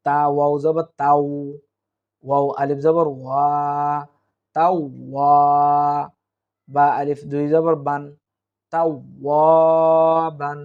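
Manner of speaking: very drawn-out, melodic recitation; slow recitation. Shown as a demonstration. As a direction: chant with long held vowels. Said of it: "অক্ফ হইলে".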